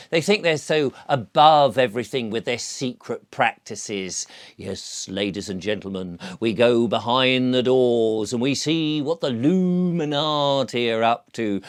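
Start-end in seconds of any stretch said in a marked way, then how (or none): 4.6-11.6 mock documentary presenter. Host teasing viewers behind secret doors, mock presenter voice. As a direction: announce it like a sleazy TV exposé host.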